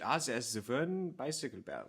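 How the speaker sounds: a hammed-up German accent as an East German clerk. Joking about Soviet-style single choices, in a mock German accent. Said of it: "which was more German accent there".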